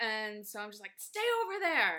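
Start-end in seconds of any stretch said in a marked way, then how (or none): 1.0-2.0 very high-pitched, loud, shrill shout. Retelling shouting at the cats to stay inside: imitating own screaming. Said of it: "I'm screaming at them like".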